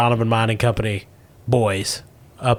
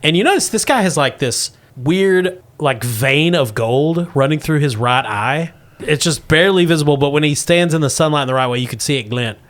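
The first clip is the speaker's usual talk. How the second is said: put-on old prospector; 4 semitones higher than usual. Russell reveals the Great One.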